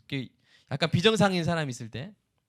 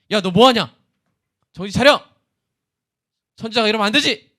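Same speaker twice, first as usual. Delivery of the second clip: louder, mock stern scolding; 5 semitones higher, 8 dB louder than usual. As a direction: scold like a harsh master, half in jest. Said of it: "이렇게 하셨어요?". (호통치는 흉내)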